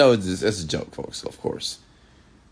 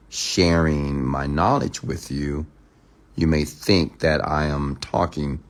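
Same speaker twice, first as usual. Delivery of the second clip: slow, even robot-like delivery; robotic voice; slower than usual. Shown as a demonstration. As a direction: talk like a measured robot, slowly. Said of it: "I know how to talk robotic".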